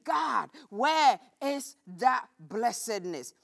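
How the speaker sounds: slow, exasperated cry to God; frustrated shout. Acted. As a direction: call out to God, fed up. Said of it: "this frustrated Gideon".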